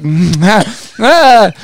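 wordless sleepy hollering, the last one high and loud; groan, then yell out nonsense; mock sleepwalker's garbled yell; imitated sleepwalker yelling. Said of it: "yelling about something".

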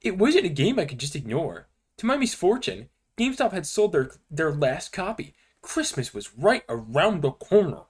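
dramatic creepypasta narration; story reading. Acted. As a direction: read it like a spooky story. Reads creepypasta aloud to friends.

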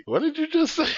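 high, sharp demand from a bystander; high, suspicious what did you say; nosy challenge. Retold or imitated. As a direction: catch someone muttering. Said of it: "that one person like".

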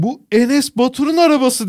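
high-pitched imitation of an excited kid; mock yell of an amazed child, pitched high; child's shout. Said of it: "diye bağırdı". (tiz sesle bağıran çocuk taklidi)

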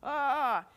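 high, loud "ah" of alarm; mock freak-out cry. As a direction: let out a mock panicked cry. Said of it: "You freak out".

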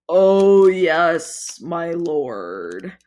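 loud then cringing creature; eager groveling yes; fawning toad. Acted.

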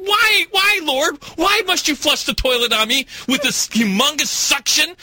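high, pleading cry to heaven; mock-anguished plea pitched high; mock lament to God. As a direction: beg the Lord, hammed up. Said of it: "I'm just like".

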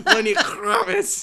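The singer's name in a hammed-up Jewish accent, slow and laughing; a jokey Jewish accent on the singer's name. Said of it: "I almost said it with, like, a Jewish accent".

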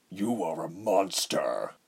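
slow, softened villain voice; hushed horror, slowed and softened; whispered. Acted. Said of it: "he whispered".

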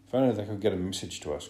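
fast, urgent plea; desperate cry. Acted. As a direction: rush it out in desperation. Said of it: "cried Ralph desperately".

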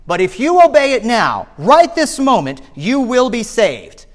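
mildly hammed pulpit admonition, climbing in pitch; admonishing preacher. Preacher warning the young stranger in the gallery, admonishing. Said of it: "He continued".

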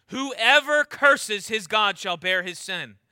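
"whoever" hit hard, slow measured verse; stress on whoever. Shown as a demonstration. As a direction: read slowly, leaning hard on "whoever". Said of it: "Hear the emphasis on the word whoever".

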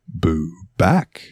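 low-key, mock-seductive comeback. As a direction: toss it back with a hint of seduction. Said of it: "seductively as fuck and just goes".

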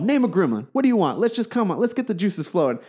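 rally the room as a flamboyant consultant; egging everyone on, theatrically; flamboyant script doctor. Retold or imitated. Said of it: "he's all super flamboyant and everything".

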